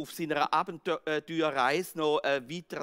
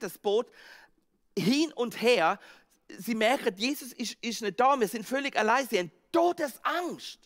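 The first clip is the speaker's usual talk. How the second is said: higher and louder, building panic; rising dramatic telling; 4 semitones higher, 4 dB louder than usual. Acted. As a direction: build the storm and fear as you tell it. Preacher dramatizes disciples' fear.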